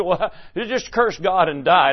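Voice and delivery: chuckling through the wife's words; half-laughing as you quote her scorn; laughing mock quote. Preacher laughingly quoting Job's wife, amused mock scorn. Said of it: "She said".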